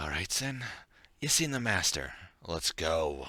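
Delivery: slow, unimpressed, drawn-out voice. Voicing the lieutenant leading the party away: unimpressed lieutenant voice. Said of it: "He's like".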